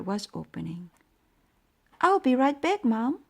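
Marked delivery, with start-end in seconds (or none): 2.0-3.2 high, loud call to Mom; yelling. A narrator's reading. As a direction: shout back from the basement. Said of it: "I yelled".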